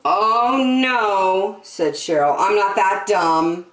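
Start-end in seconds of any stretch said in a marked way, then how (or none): 0.0-1.6 loud, drawn-out, higher "oh, no"; knowing refusal. Acted. Girl refuses the bait. 2.4-3.7 put-on emphatic, self-assured kid; knowing refusal. Girl refuses the bait.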